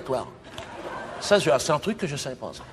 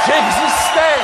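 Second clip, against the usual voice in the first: much higher, loud exultant shout; triumphant cry; 11 semitones higher, 9 dB louder, much slower than usual. Acted. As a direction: crow it in glory. Triumph at media attention.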